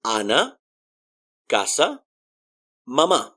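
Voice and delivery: Ana, casa, mamá with every a an open "ah"; Ana, casa, mamá in careful Spanish; Spanish A sound. Shown as a demonstration. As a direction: model the word list with pure "ah" vowels. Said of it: "So A will always sound A".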